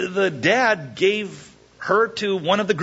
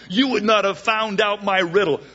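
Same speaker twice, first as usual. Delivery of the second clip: mild mock anger; 6 semitones higher than usual. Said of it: "he says this classic line".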